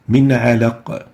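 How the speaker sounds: "علق" stopped on a bounced qaf; "علق" as alaq, qaf vibrating at the stop; pausing with sukoon. Shown as a demonstration. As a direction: end "من علق" on an echoed q, no case vowel. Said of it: "we always pause with sukoon".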